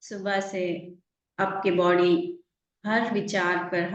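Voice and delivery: calm meditation guide, lingering on the words; guided meditation. Real, not acted. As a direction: ease listeners into relaxing, unhurried and even. Leads a relaxation meditation.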